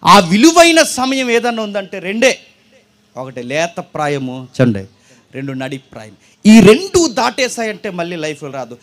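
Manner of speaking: slow emphatic preaching. Acted.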